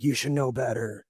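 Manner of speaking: mildly scolding imitation of an officer; retold yelling. Marine to a wife in shorts, mock scolding. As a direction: put on a light telling-off voice. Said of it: "he yelled at me, like".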